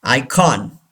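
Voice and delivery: icon as "EYE-kawn"; icon, second syllable clearly "kawn"; full O vowel. Shown as a demonstration. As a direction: say icon with a full open "kon" at the end. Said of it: "don't say icon".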